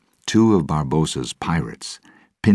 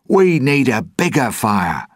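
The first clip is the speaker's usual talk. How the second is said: loud, high commanding shout; 9 semitones higher, 5 dB louder than usual. A narrator's reading. Jack as chief orders the islanders about, shouted. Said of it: "he shouted".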